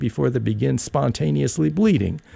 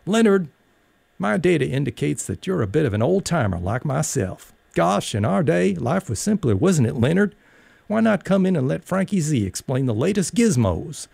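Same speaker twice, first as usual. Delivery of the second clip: a hint of a chummy old-timer selling gadgets; Gene Kelly hologram; 3 semitones higher than usual. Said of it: "a life-size Gene Kelly hologram appeared".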